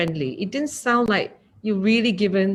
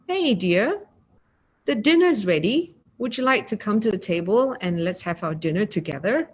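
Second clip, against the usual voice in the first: kind speech. Shown as a demonstration. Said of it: "As opposed to".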